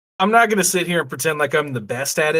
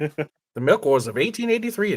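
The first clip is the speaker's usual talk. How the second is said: announcer voice; 3 semitones higher than usual. Pretend. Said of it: "you do that voice".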